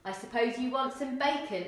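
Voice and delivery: put-on Cockney uncle sneering at the boy. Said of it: "Eric asked".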